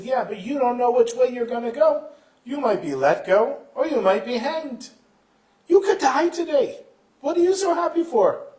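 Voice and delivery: incredulous warning. Acted. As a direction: argue loudly in astonishment, pitch climbing. Guard incredulously warns happy prisoner.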